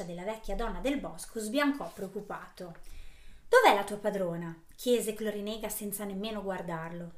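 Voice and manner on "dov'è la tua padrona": put-on old hag. Old woman from the woods demands.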